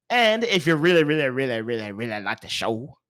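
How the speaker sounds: a playful fading string of "really"; odd drawn-out delivery. Real, not acted. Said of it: "I don't know why I said it like that".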